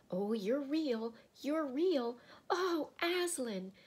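put-on high, loud, overjoyed girl; joyful crying out. A narrator's reading. Lucy finds Aslan is real, high joyful cry. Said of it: "cried Lucy".

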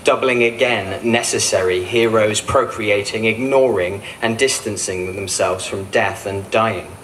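measured, incantatory poetry reading; spoken-word poem, each phrase set apart; poem recitation. Acted. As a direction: recite it as a chain of short phrases. Poet reads own piece aloud.

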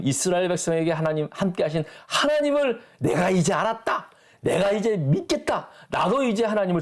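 high, fervent declaration of faith; Jethro confessing. Acted. Preacher voices Jethro's confession. (높고 뜨겁게 고백하는 이드로)

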